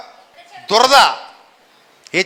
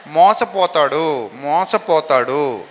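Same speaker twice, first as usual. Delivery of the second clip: slow emphatic repeat; 6 semitones lower, much slower than usual. Shown as a demonstration. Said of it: "విశ్వాసి ఏమవుతాడమ్మా".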